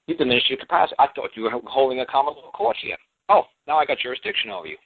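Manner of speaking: acted pleased judge. Acting the judge's delighted discovery.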